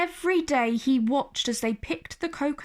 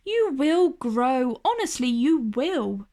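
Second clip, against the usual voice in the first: reassuring. Acted.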